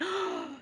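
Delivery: high shocked "oh" on a gasp; mock amazed intake of breath; imitated gasp. Mum being shown the bruise, mock gasp. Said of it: "She going".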